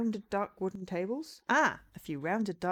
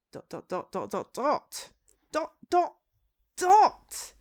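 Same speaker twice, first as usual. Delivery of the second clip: repeated word climbing to a loud, high peak; escalating exasperation; 9 semitones higher, 8 dB louder, slower than usual. Real, not acted. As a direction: build from usual voice to a high shout. Streamer reads out ellipses, escalating.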